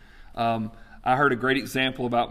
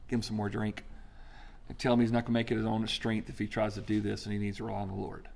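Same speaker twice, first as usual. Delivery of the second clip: gentle God voice; 5 semitones lower, 7 dB quieter, faster than usual. Pretend. God instructing angel.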